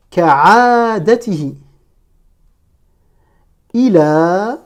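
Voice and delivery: slow, drawn-out long vowels; each word alone, held and separate; careful Arabic reading model; detached word-by-word. Shown as a demonstration. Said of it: "chaque mot de manière détachée".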